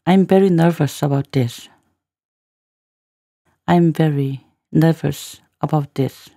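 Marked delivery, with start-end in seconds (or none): 3.7-6.3 slow, segmented teacher's demo; slow, in chunks. Shown as a demonstration. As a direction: say it slowly, one word group at a time. Teacher repeats line in slow chunks.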